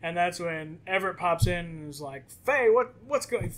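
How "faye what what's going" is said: calling up the stairs, louder and higher; retold yell. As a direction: shout the question up to her floor. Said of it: "He yells up the stairs".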